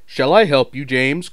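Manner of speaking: loud, friendly call. A narrator's reading. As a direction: offer help kindly. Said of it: "called Edward".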